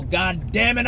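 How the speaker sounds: folksy ranting talk-show host, lightly voiced; a hint of Alex Jones building his rant; Alex Jones impression. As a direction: preach about hell and anger like a conspiracy radio host warming up. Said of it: "my Alex Jones impression".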